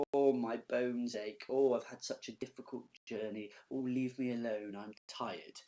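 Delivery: mock complaining, drawn-out "oh"s; loud theatrical moan that sags at the end; moaning Nurse. Teacher mimicking the Nurse stalling Juliet, mock weary moaning. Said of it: "and she's there going".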